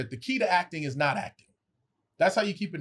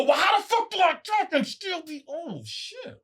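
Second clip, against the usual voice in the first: high puzzled inner voice; 12 semitones higher than usual. Retold or imitated. Inner thought after director's advice.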